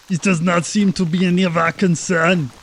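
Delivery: mildly theatrical indifference; dismissive character voice. Acted. Game master voices Atulf's dismissive reply.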